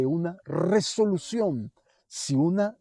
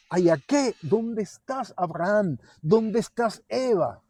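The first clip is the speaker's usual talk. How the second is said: God calling out; 4 semitones higher than usual. Acted. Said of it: "cuando el Señor le dice".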